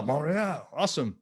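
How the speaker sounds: hammed-up French-accented Montreal; bad French accent. Shown as a demonstration. Host greeting viewer from Montreal, joking French accent. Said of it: "That's a horrible accent".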